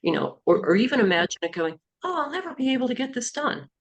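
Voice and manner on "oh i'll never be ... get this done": high, quick cartoonish squeak; funny voice. Shown as a demonstration. Coach demonstrating a negative thought made ridiculous, funny high voice. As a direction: say it in a silly, high-pitched voice. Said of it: "in a funny voice".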